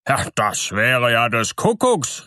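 amazed miller crying out; astonished exclamation. A narrator's reading. Miller hears of the hidden roast, exclaiming in surprise. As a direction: let surprise burst out, fairly contained. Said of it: "rief der Müller".

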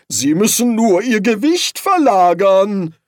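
loud, high, urgent advice; shouted instruction. A narrator's reading. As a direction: call it out over the commotion. Shouted instruction on flying broom.

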